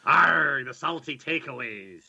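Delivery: hint of a pirate growl. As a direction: say it like a pirate, slowly. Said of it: "Pirate voice has been suggested".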